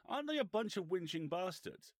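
high, loud retold complaint with falling end; indignant aside question. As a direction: imitate an affronted boss checking with his PR. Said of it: "Davies looks across at his P R flag".

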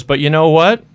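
high, playful invitation. Retold or imitated. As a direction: toss him the offer lightly.

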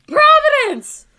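high, slow, joyful yelling; silly clown shout. Retold or imitated. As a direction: shout it out the window like a herald. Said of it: "I flung the window open and I was like".

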